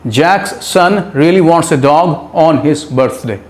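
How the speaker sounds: very slow, even repeat. Shown as a demonstration. Teacher repeating the sentence slowly for students. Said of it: "एक और sentence देखते हैं".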